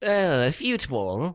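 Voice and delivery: high, slow "fute ball" with yoo; mock English pronunciation. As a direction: echo "fute" drawn out and questioning. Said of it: "we call them fute balls".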